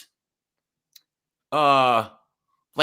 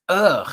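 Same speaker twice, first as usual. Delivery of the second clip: disgusted ugh; 2 semitones higher, 4 dB louder than usual. Acted. Disgust at women with those accents.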